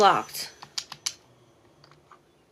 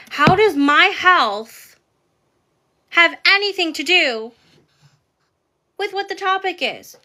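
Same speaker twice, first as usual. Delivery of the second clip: angry rant; 3 semitones higher than usual. Real, not acted.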